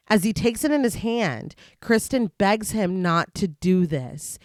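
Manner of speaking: measured storytelling read; story narration. A narrator's reading. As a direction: recap read like an audiobook.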